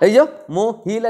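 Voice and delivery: মহিলা said slowly, syllables stretched; slow-motion syllable demo. Shown as a demonstration. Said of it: "slow motion করো".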